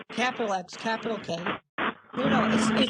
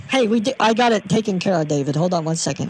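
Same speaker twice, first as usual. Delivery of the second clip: calling out; 2 semitones lower, 8 dB louder than usual. Real, not acted. Calling to David mid-call.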